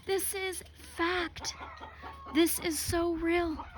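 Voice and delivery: breathless high whisper, slow; hushed, awestruck whisper; awed whisper. Retold or imitated. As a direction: whisper it like a revelation. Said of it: "I'm like".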